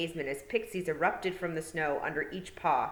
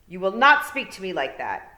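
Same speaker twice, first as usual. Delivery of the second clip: louder, indignant scolding; angry young lord; 3 semitones higher, 10 dB louder than usual. A narrator's reading. Boy to girl who named him, loud indignant rebuke. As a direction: put her in her place, loudly. Boy forbids her to speak.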